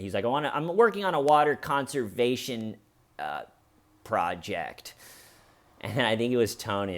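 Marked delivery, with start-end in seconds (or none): 0.2-4.9 imitating unsure guy; hesitant ending. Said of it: "doesn't know which word he wants to end".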